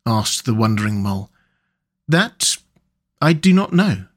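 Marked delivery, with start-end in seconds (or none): 2.1-4.1 a hint of a higher rat voice, dreamy and content; lightly voiced Rat. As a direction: Rat savouring the sun and the wind, lightly voiced. Rat speaking in story.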